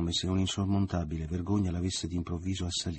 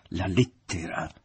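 slow, firm repeat; stern command; 4 dB louder, slower than usual. A narrator's reading. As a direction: insist slowly and coldly. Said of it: "intimò l'uomo per la seconda volta". (intimazione lenta e ferma)

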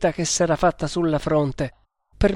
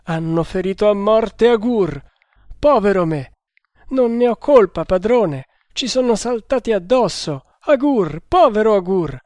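high, loud lament; desperate weeping; 6 semitones higher, 5 dB louder than usual. A narrator's reading. Traitor reporting Agur's fate to his master, weeping desperately. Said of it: "piangendo disperatamente".

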